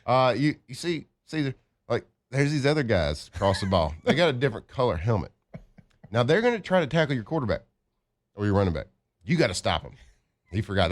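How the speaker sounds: put-on a light country accent, coach explaining the basics. Coach scolding a lineman who forgot to block, in a light country accent. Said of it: "he has a country accent".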